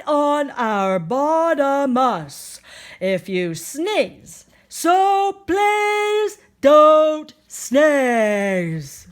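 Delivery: drawn-out, pleading elephant voice; slow pleading elephant. Acted. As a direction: stretch it out, begging.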